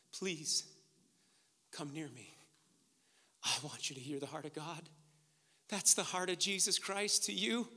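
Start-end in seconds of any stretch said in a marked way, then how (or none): 0.1-2.3 very soft, low acted plea; tender plea. Joseph inviting his brothers close, tender plea. 3.4-4.9 soft, low and intimate; hushed, gentle entreaty; tender plea. Acted. Joseph appealing to his brothers, tender plea.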